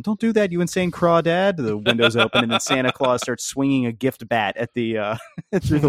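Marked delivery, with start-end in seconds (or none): 0.0-1.6 high-pitched yell; yelling Hermes. Retold or imitated. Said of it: "While Hermes yells at him".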